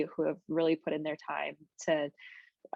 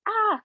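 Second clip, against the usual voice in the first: a sudden high-pitched, louder "ah", overcome with feeling; emotional outcry; 5 dB louder than usual. Real, not acted. Thanking her committee, she breaks into a high emotional "ah". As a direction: let a high cry of emotion burst out. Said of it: "Now I'm getting emotional".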